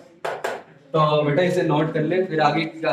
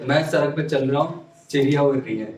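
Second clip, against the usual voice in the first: imitating eastern UP-Bihar accent. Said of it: "जैसे आपसे बोलेंगे".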